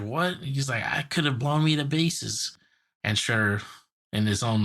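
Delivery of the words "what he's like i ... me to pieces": Krang voice. Retold or imitated. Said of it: "Krang's just like".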